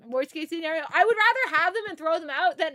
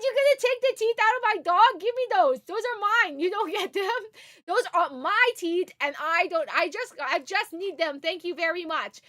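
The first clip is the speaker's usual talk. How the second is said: possessive demand; 2 semitones higher than usual. Retold or imitated. Telling the vet she keeps her dog's teeth, a mock possessive demand. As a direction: insist the teeth are yours, a bit hammed up. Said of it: "I said".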